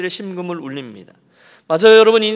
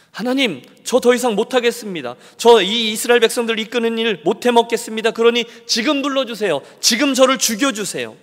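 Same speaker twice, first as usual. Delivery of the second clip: higher, louder plea of someone at the end; giving up; 6 semitones higher, 5 dB louder than usual. Acted. Moses telling God he quits, higher and louder. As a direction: beg to be let go, worn out. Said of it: "이쯤 되면 막 가자는 거죠".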